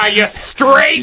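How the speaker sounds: mocking cheer. Joins parents' mocking.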